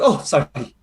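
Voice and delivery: lightly voiced grandmother brushing it off sweetly; a hint of a sly old lola apologizing; Lola Carly. Lola Carly excusing her glowing eyes, lightly voiced. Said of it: "And she goes".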